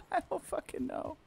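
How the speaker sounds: scared horror game streamer. Real, not acted. Panicking while chased.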